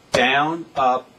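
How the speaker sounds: one word per drum stroke, evenly spaced; said while playing. Shown as a demonstration. Drum teacher saying strokes as he plays, rhythmic count. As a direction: call each stroke on the beat, "down" punched. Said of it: "I'll say it as I play it".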